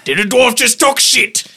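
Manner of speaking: high, loud mocking jeer; mock the dwarf shrilly. In-character mocking insult.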